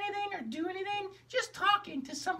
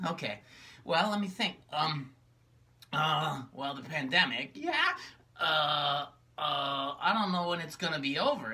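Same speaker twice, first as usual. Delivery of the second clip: gloomy low puppet; 13 semitones lower than usual. Acted. Magenta tells her sister how lonely she is, low and gloomy. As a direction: sigh it out like a sad puppet.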